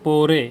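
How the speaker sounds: loud "পড়ে" ending on a clear এ; stressed e sound. Shown as a demonstration. Teacher pointing out the middle sound, stressed এ in "পড়ে". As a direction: punch "পড়ে", letting the final এ ring. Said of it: "এই যে এ sound হচ্ছে না".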